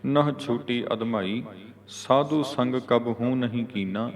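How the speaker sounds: measured model reading, rest after ਕੀਨਾ; pause after ਕੀਨਾ. Shown as a demonstration. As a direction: read in phrases and stop on ਕੀਨਾ. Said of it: "ਵਿਸ਼ਰਾਮ".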